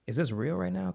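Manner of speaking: stunned disbelief. Retold or imitated. Disbelief at caller's story.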